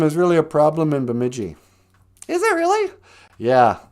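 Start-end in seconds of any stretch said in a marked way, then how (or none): 2.3-2.9 mock surprise.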